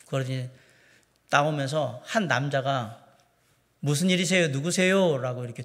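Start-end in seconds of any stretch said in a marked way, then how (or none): 3.8-5.2 mock-curt, blunt man's voice. Retelling a man answering the doorbell, imitating a curt man. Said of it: "퉁명스럽게".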